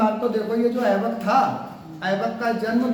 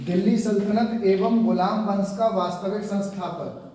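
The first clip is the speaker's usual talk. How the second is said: dictating; 3 semitones lower than usual. Shown as a demonstration. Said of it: "note करके लिखो एक point".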